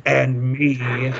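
understated ghostly bellow, kept fairly quiet; mock bellow. Pirate ghost calls from the closet, in a half-hearted mock bellow. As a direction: lightly imitate a big ghost voice without raising volume. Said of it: "made itself known by bellowing out".

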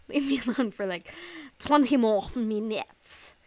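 loud, hammed-up French accent; bad French accent. Host telling her texting friends off, bad French accent. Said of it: "That was my fucking French accent".

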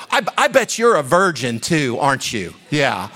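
imitated taunt, punched at the start; mocking. Coworker ridiculing him for being a Christian, mocking. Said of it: "she starts mocking me".

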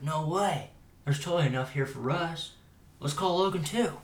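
hammed-up eager host; mock delighted surprise. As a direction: act out happy disbelief, pitch climbing. Acts out delight at breakfast.

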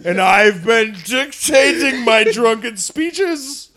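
put-on slurred, slow drunk Churchill, lightly done; lightly voiced drunk Churchill, slow; a hint of tipsy Churchill. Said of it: "your drunk Churchill is my favorite accent".

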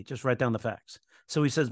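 ordinary talk, nothing marked

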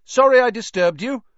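half shout. A narrator's reading. Harry speaks to a wizard who might be deaf, half shouting. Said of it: "he half shouted".

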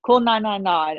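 pressing her to call; urgent. Retold or imitated. Telling friend to call fire brigade, urgent.

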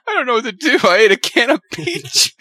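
high, whiny mock of his friend; mock helpless. Friend mocking Justin's sad peach dinner, high whine. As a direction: play him as lost without her. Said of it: "S1 mocks Justin's sad dinner".

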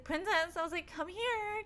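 retold sing-out to a pet; calling the dog. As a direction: coax a dog over, voice lifting high.

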